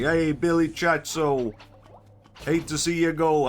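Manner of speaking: loud, high, drawn-out Italian send-off; big hammed-up Italian farewell in a put-on voice; fake Italian accent. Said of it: "can't even do the voice".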